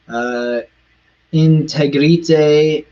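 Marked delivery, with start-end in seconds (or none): 1.3-2.8 accidental Italian. Shown as a demonstration. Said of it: "That sounded Italian".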